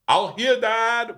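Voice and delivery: put-on high, childish little-girl voice; mock toddler voice; little daughter's voice. Dad voicing his small daughter.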